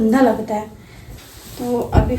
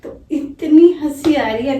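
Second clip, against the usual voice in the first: laughing; 2 semitones higher, 7 dB louder than usual. Real, not acted. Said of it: "आप देख ही सकते हो मुझे कितनी हंसी आ रही".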